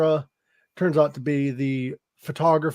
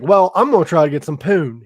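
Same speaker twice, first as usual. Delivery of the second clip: crude mock line; 8 dB louder than usual. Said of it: "He don't say it like that".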